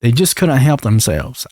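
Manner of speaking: lightly mock Southern US accent. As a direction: retell it in a folksy Southern accent. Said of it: "I gave Lauren a southern accent".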